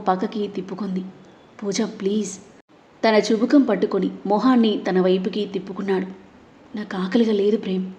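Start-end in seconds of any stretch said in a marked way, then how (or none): 1.6-2.3 softer, gentle please; soft coaxing. Acted. Softly coaxing her to eat. 6.8-7.9 dull. Acted. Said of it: "అంది డల్గా".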